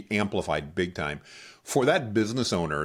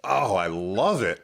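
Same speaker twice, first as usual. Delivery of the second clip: awed whisper; 3 dB louder, slower than usual. Real, not acted. Awed reaction after whisper exercise.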